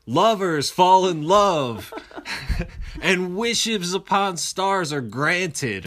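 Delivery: silly clown. Retold or imitated. Dreamy quoted speech.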